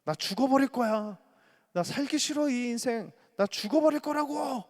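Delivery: put-on high, loud desperate teenage wail; a child crying out to parents that they want to die; teen outburst. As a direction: scream it at your parents. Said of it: "엄마 아빠한테 이렇게 말하는 거예요".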